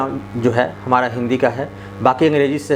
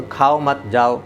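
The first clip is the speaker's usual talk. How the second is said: slow "खाओ मत जाओ" without a comma; much slower than usual. Shown as a demonstration. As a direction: read "खाओ मत जाओ" slowly as one phrase. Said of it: "कोई चिन्ह नहीं तो".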